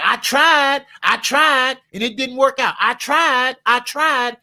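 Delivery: lightly voiced complainer; whiny excuse-maker. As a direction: mimic a lazy excuse-maker. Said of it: "They be like".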